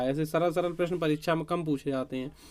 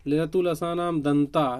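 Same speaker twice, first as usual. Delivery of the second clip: recited sutra; slower than usual. Shown as a demonstration. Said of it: "दांत से क्या उच्चारित होता है".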